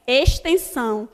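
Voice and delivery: "Extensão" with the x said as s, estensão; teacher sounds out the s in "Extensão". Shown as a demonstration. Teacher shows class "Extensão" sounds with s. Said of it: "na minha pronúncia sai um S".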